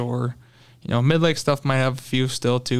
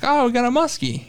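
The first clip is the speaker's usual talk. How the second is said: retold thrill, voice jumps much higher; excited shout; 11 semitones higher than usual. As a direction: blurt it out like you just spotted the fish. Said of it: "I'm like".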